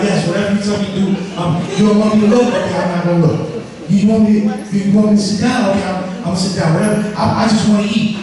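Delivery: fast, eager, obliging patter; rushed, hungry, half-whining yes-man voice; the hungry body talking. Acted. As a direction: babble along like a starving body agreeing to anything. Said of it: "That's your body talking".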